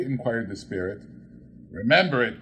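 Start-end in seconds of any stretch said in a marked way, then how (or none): 1.7-2.4 fervent cry. Acted. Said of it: "cried Scrooge with fervor".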